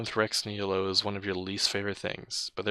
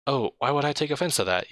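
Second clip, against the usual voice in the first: sarcastic; 6 semitones higher than usual. Acted. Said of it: "you say sarcastically".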